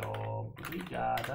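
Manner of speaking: slow, careful "obrigada" with every syllable spelled out; correct feminine form. Shown as a demonstration. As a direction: say "obrigada" slowly, ending in a clear -a. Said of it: "perché questa è femmina".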